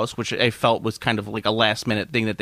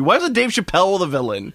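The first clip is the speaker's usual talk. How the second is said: laughing shout; 5 semitones higher than usual. Real, not acted. Laughing outburst about casting.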